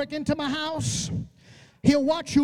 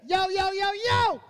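lightly voiced David calling out; 3 semitones higher than usual. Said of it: "David looked at him and said".

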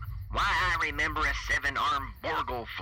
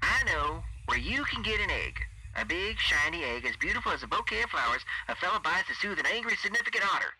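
higher, eager radio-voiced thief; excited radio voice; 5 semitones higher, 3 dB quieter than usual. A narrator's reading. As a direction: pitch it up like a salesman with a hot tip. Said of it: "radio voice taking on a new, more excited edge".

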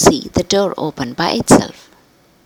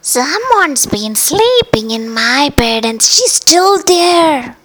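higher and louder, rising to a cry; exclaimed; 9 semitones higher, 4 dB louder, slower than usual. Acted. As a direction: burst out, alarmed, at the end. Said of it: "exclaimed Papa Bear".

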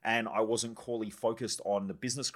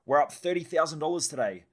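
higher and louder, thrilled announcement; retelling a giddy bedtime boast; excited boast; 6 semitones higher, 5 dB louder than usual. Retold or imitated. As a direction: brag about the gains to your wife.

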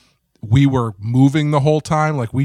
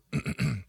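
throat clearing; 3 semitones higher, 10 dB quieter than usual. Real, not acted. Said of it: "I'm coughing a lot tonight".

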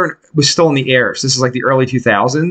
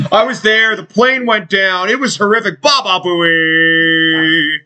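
prank caller voice; 5 semitones higher, slower than usual. Retold or imitated. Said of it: "prank caller".

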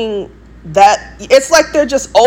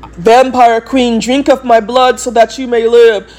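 Queen of the Damned; 3 semitones higher, 3 dB louder than usual. Retold or imitated. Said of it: "I'm not gonna be the Queen of the Damned".

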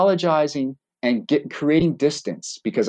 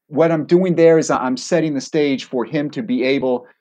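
usual speaking voice

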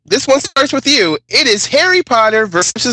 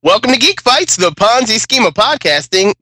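a hint of a put-on British accent; faked British accent. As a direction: fake a British accent to open the show. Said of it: "Just fake it".

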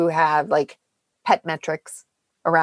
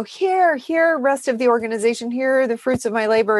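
higher-pitched, play-acted offering; imploring mock presentation; 5 semitones higher than usual. Host voicing a researcher offering work to the organization, imploring. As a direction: hold it out to them like a proud gift, half in jest.

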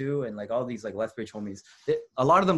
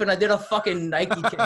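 laughing; 9 semitones higher, 6 dB louder than usual. Real, not acted. Laughing while retelling the move.

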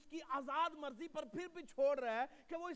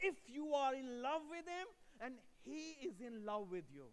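slow tender aside; 2 semitones lower, much slower than usual. Real, not acted.

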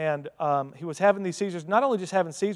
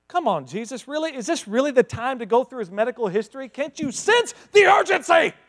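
builds to a high, loud shout; impatient shout; 6 semitones higher, 4 dB louder than usual. Pretend. Preacher pretending to rush Jesus, rising to a shout. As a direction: hurry him up, yelling at the end. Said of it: "That's not what Jesus does".

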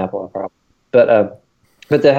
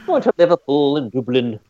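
put-on British accent; 4 semitones higher than usual. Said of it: "Helps if you do the accent".

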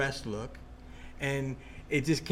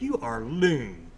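mocking Bobby; 4 semitones lower, much slower than usual. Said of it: "like that".

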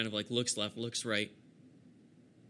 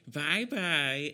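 higher, louder acted goodbye; villain's farewell; 4 semitones higher, 5 dB louder than usual. Villain about to vanish from his pursuer, higher mocking farewell. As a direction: toss off a cheeky goodbye. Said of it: "he kinda goes".

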